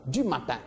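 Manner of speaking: "du matin" with the accent landing on -tin; accent on final TIN. Shown as a demonstration. Teacher marking the group's accent, stress on the end of "du matin". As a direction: lean on the last syllable of "matin". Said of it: "tu mets un accent".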